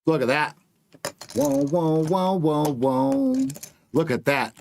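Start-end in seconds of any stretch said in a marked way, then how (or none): 1.3-3.5 excited whoa. Real, not acted. Price suddenly moves on chart.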